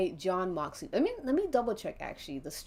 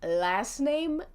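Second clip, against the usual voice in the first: slow, proudly announced mock introduction; confident; 3 semitones higher, slower than usual. Cheeky player answers the stranger, with mock confidence. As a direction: declare each part boldly, pitched up, dropping on the surname. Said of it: "you with so much confidence".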